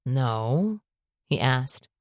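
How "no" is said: husky whisper. Acted. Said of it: "his voice almost a husky whisper".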